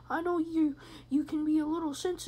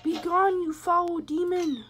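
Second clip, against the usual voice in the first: loud, higher banishing command; mock exorcism; 5 semitones higher, 8 dB louder than usual. Player banishing Candy, mock-exorcist shout. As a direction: cast it out loudly, drawing out the end.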